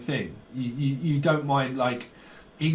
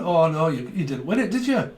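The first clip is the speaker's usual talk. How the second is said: higher-pitched game-show host impression; Jim Bowen; 3 semitones higher than usual. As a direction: usher the losers over to see the prize. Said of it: "Like Jim Bowen".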